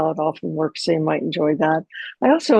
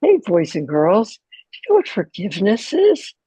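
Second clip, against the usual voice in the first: put-on children's TV host; 2 semitones higher than usual. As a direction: talk like Mister Rogers to kids. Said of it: "said in a voice like you speak to children on a television show".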